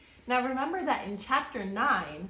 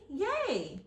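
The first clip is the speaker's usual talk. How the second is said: cheer; 6 semitones higher than usual. Acted. Annie cheers on return.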